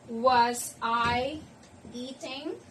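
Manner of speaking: slow question, lifting on "eating"; spaced-out words, with "eating" rising at the end; teacher modelling a question rising on "eating"; rising question intonation. Shown as a demonstration. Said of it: "intonation is rising at the end".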